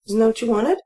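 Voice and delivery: high, puzzled surprise; surprised, not getting the reaction. Acted. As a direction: caught off guard, pitch jumping up. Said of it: "I say, surprised".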